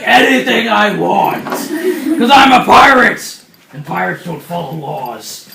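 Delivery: slow, loud pirate boast; hammed-up swaggering yell; defiant pirate shout. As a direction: bellow it like a lawless pirate.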